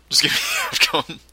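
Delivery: plea breaking into laughter; quick mock begging, losing it to a laugh. Bored player begging the game for a result, laughing plea.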